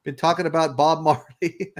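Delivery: high, bright welcome call; excited greeting. Real, not acted. Host greeting Chari arriving mid-show, high and excited. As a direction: greet a friend walking in.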